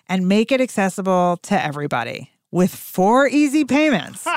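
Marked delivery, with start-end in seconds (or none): 2.5-4.3 slow, pitched-up sales pitch; hard sell ad. Retold or imitated. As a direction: sell it like an infomercial host. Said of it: "the modern infomercials".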